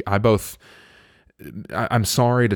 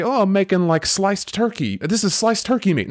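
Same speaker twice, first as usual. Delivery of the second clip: mocking voice; 9 semitones higher than usual. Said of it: "a whole turkey and say".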